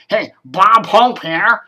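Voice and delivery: slow Bob Hope impression; drawn-out old comedian voice.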